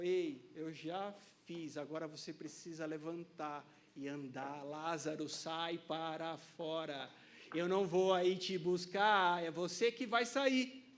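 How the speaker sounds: Jesus voiced. Jesus voiced calling Lázaro.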